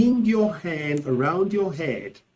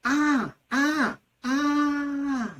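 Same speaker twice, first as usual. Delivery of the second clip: high-pitched agonised ahs, last one held long; moans of pain; 11 semitones higher, much slower than usual. Shown as a demonstration. Teacher acting out excruciating pain, pained cries. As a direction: cry out in mock agony. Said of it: "When the pain is intense or excruciating".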